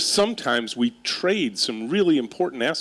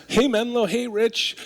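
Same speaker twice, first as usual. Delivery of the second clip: call and answer; 11 semitones higher than usual. Shown as a demonstration.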